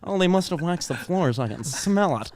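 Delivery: lightly put-on Kristen Wiig-style mom; mom's odd delivery. Comic quoting mom's first words after the fall, lightly imitated. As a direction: imitate the mom, dropping off on the smell. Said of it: "the way she said it, dude".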